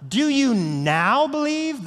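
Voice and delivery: slow, high, incredulous question; exasperated. Retold or imitated. Jesus questioning disciples, a touch exasperated. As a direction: let the disbelief drag out. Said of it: "you can sense the exasperation".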